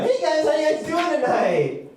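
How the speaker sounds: a cruise ship doing stand-up, hammed-up; lightly voiced boat comic; cruise ship comedian. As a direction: emcee voice of a talking ship. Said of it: "all you guys hear is".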